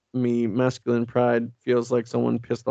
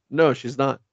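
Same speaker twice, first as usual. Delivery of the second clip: blunt; 2 semitones higher than usual. Retold or imitated. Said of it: "with no tact or bedside manner".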